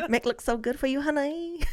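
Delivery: hammed-up Asian accent, coaxing a customer; Asian nail lady accent. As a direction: badly imitate an Asian nail technician. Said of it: "I think she was going for Asian".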